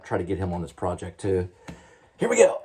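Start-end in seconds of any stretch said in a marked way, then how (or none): 2.2-2.6 much higher, chirpy call to the cat; excited high call. Real, not acted. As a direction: sing out to get the cat's attention. Calling the cat.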